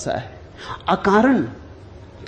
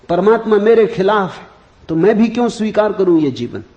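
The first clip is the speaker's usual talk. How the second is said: acted despairing outburst, building higher and louder; desperate protest; 4 semitones higher, 4 dB louder than usual. Man about to drown himself refuses the fakir, desperate protest. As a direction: protest with mounting exasperation, as the man in the story.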